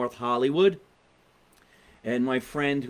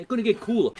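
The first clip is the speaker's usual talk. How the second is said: much higher mocking repeat of the quote; 9 semitones higher, 3 dB louder, faster than usual. Host mocking the president's words, much higher mocking repeat. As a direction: parrot it back high and mocking. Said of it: "dumbest fucking thing I've heard".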